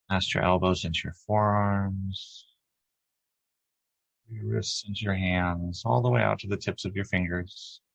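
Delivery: calm, even meditation guide with long pauses; unhurried lead through breath and body, leaving space between phrases; guided meditation. Acted. Guiding a group to relax as light flows down, guided meditation.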